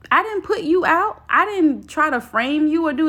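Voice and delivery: indignant. Real, not acted. Defending herself from ex's accusation.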